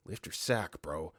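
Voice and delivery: hushed, voiced aside, dropping away; imitated whisper. Experienced inmate urges Sam during search, imitated whisper. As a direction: murmur it low as a mock whisper. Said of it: "whispers to Sam".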